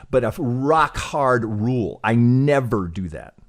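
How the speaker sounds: loud, slow, heavy stress on "rock hard rule" and "NEVER"; real emphatic insistence. Real, not acted. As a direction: lay down the rule loudly, word by word. States his hard personal rule emphatically.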